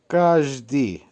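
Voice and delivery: কাজদি split as কাজ-দি; teacher modelling কাজদি clearly; careful pronunciation demo. Shown as a demonstration. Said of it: "উচ্চারণ হবে". (কাজদি-র স্পষ্ট উচ্চারণ)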